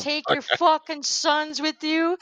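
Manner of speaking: mock tirade piling up insults; Michael Rapaport. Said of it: "just losing his shit".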